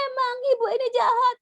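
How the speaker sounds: put-on high, sobbing child's accusation; crying toddler. Toddler crying at mum who refused, high sobbing whine. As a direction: whine it like a hurt, sobbing kid.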